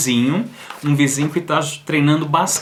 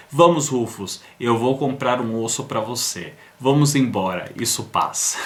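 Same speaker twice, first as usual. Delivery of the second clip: consoling; 3 semitones lower, 3 dB quieter than usual. Retold or imitated. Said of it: "ele consola".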